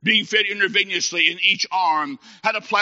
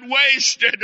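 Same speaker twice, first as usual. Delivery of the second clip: high wail, less piercing than a scream; dramatised tearful cry; acted sob; 7 semitones higher, 4 dB louder than usual. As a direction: sob the word out in imitated despair. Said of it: "Then he sobbed and said".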